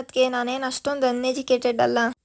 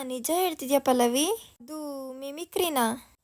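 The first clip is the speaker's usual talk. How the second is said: stunned disbelief; 5 dB quieter, slower than usual. Acted. Anita learns it was mimicry.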